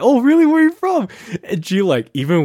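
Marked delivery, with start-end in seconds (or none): 0.0-1.1 high, mock-sweet probe; faux-innocent question. Friend testing a fake Bay girl, mock-sweet. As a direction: set the trap sweetly. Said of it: "I was like".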